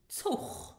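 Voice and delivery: whispered teacher model of Zug. Shown as a demonstration. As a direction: breathe Zug ending on ch. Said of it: "So you have the ch sound".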